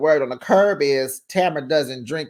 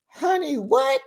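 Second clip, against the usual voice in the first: surprised; 14 semitones higher than usual. Real, not acted. Reacting to surprising news.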